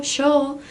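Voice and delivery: sho, yo with a sh sound at the start. Shown as a demonstration. Teacher showing students sound variants, yo turned into sho. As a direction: demonstrate yo pronounced as sho. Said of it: "esse som é muito variado".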